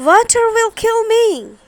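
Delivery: high, loud screeching witch; witch melting. A narrator's reading. Melting witch screeches high and loud in terror. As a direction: screech as she dissolves.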